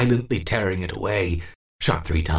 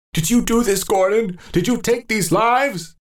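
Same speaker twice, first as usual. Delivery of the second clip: put-on old man confronting Gordon; horrified questioning; 4 dB louder than usual. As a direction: demand in horror.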